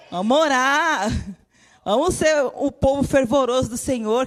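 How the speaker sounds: fervent preacher's call; rallying call. Acted. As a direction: rouse the congregation to pray. Calling the church to prayer.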